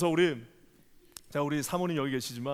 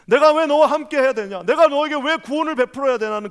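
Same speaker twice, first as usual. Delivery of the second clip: God's challenge; 10 semitones higher, 12 dB louder than usual. Acted.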